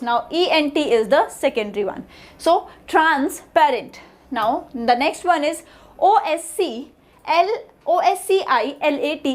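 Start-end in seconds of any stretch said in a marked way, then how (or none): 2.9-4.0 "transparent" drawn out slowly as trans, parent; slow "transparent" with a break after trans; word split into parts. Shown as a demonstration. Teacher summing up the syllables, "transparent" slow and split. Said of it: "these are the primary syllables".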